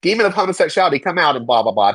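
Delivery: sing-song mock command, trailing into blah blah; mock exorcist. Church members naming demons to cast out, mocking imitation. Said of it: "talking to the demon".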